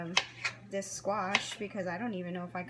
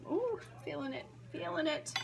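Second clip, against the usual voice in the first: teary from onion; 8 semitones higher, 3 dB quieter than usual. Real, not acted. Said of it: "Feeling the tears".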